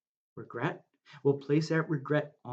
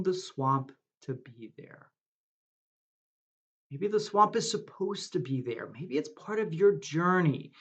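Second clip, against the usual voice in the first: guided meditation. Acted. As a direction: lead them gently into the breath and the green.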